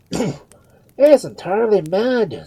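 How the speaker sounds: high, loud, slow pronouncement; emphatic verdict. A narrator's reading. Father Murphy judging the screaming Duke, emphatic. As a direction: declare it with alarm.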